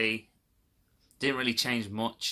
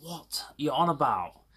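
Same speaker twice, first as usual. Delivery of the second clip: higher, disbelieving "what are you on about"; incredulous retort; 6 semitones higher than usual. Retold or imitated. To the PayPal agent, a higher incredulous retort. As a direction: throw it back in disbelief.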